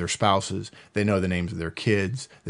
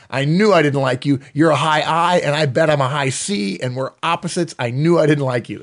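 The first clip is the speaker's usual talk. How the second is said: mock accusation, a little louder; imitating incensed man; 4 semitones higher, 5 dB louder than usual. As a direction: retell an indignant outburst, pushing each charge. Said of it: "they were kind of incensed".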